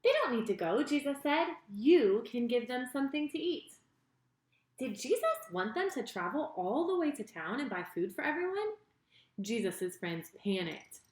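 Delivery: put-on lively storyteller reading to kids; story narration for children. A narrator's reading. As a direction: tell it like a bedtime Bible story. Reads Bible story to children.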